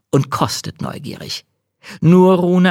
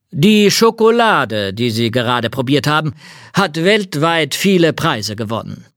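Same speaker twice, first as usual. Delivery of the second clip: count voice; 4 semitones higher than usual. Acted. Count, proud and higher.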